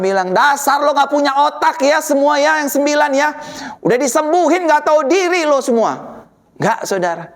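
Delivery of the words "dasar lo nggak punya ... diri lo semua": higher-pitched mock telling-off; mock scolding. Preacher imagines Tuhan berating the nine ungrateful healed, mock scolding. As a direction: scold them in an exasperated rush of indignation. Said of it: "Tuhan nggak marah".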